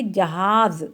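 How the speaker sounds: "जहाज" ending in a buzzing z, as ja-haaz; nukta Z sound. Shown as a demonstration. Teacher reading for pupils after placing the nukta, "जहाज" with a final z. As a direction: say "जहाज" with j first and z last. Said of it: "तो इसको पढ़ेंगे जहाज".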